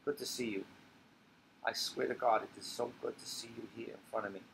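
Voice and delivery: put-on soft drunk old woman; drunk tender old woman. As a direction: murmur it, drunk and fond. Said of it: "She turns into Sophie".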